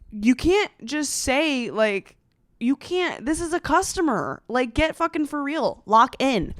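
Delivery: fed-up and incredulous; exasperated disbelief. Real, not acted. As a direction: stretch CAN'T in exasperation, then scold. Exasperated retort to the cafe.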